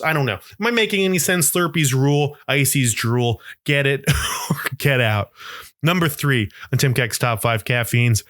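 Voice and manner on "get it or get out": laughing sign-off. Real, not acted. Slogan with a laugh.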